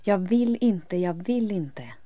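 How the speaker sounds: loud repeated refusal that fades on the second line; desperate refusal. A narrator's reading. Elin refusing the voices, desperate and loud. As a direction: cry out the refusal, then ease off.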